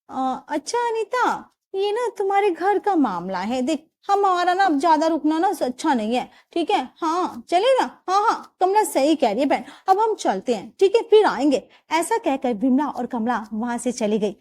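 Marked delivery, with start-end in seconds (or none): 0.1-11.6 lightly voiced neighbour, higher and hesitant; backing out of a family quarrel politely; awkward exit. Neighbour makes an awkward excuse to leave, lightly voiced.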